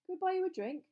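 loud, high cheery offer; bright. A narrator's reading. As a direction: make the offer brightly, voice lifted. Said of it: "said Fred brightly".

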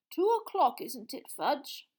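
high, frail question; lightly quavering elder; feeble old man. Acted. Ancient wizard asking the minister the time, frail. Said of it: "in a feeble voice".

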